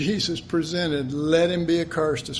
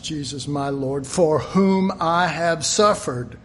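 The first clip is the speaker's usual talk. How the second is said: scripture reading; 2 semitones lower than usual. Acted. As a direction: read the verses like a solemn proclamation. Reads Philippians aloud in sermon.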